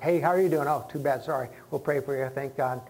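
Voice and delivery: quick careless "too bad, sorry"; rushed brush-off. Mocking a hurried churchgoer brushing someone off, breezy. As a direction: toss it off while already walking away. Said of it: "You can't be in a hurry, like".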